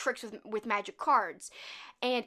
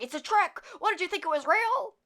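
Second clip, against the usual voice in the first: angry mock retort; 7 semitones higher, 4 dB louder than usual. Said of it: "because he's like".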